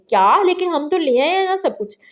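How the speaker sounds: surprised. Acted. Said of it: "हरम ने हैरत से पूछा".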